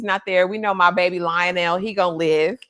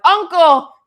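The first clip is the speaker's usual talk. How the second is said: Egg; 9 semitones higher, 9 dB louder than usual. Retold or imitated. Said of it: "Egg is like".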